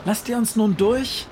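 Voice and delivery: very high, loud demanding call. A narrator's reading. Witch Befana calls to the fish swarm, demanding. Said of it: "ruft sie".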